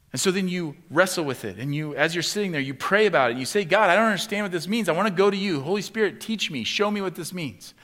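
loud, high, driving preacher's build; preaching at full force. Acted. Pastor pressing the congregation, loud and high. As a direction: preach it hard, rising in urgency.

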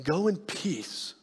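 slow, soft gentle release; tender blessing. Retold or imitated. Jesus blessing the forgiven woman, soft and slow. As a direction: send her off in peace. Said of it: "Jesus tells this known prostitute".

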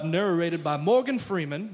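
lightly put-on low narrator voice; a hint of deep documentary narrator; Morgan Freeman. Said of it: "That's my Morgan Freeman impression".

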